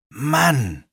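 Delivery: a short irritated growl; mildly annoyed snarl. Acted. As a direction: brother fed up with Root, mild growl. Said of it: "knurrte Alex".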